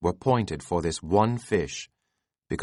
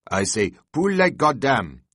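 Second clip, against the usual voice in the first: raised, fierce call; Tashtego crying out; 4 semitones higher, 4 dB louder than usual. A narrator's reading. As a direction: answer the challenge with a fierce shout. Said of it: "cried the Indian".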